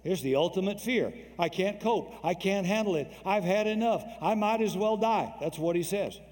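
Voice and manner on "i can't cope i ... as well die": despairing cry. Retold or imitated. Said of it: "He felt like he couldn't cope".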